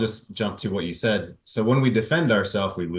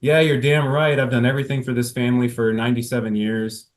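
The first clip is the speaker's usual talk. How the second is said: mock angry wife. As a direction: vent as the fed-up wife. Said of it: "imagining Bambi being very angry".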